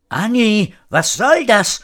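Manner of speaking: high-pitched protesting call; indignant cry. A narrator's reading. Frau Horatio to the woman who shoved her, crying out. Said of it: "rief Frau Horatio".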